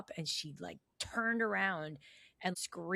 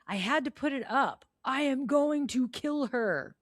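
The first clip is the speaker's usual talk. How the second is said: mock enraged; 3 semitones higher than usual. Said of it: "so enraged".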